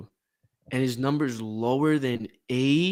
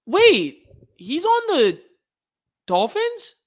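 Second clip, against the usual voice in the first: excited; 6 semitones higher, 9 dB louder, slower than usual. Real, not acted. Excited at a familiar name.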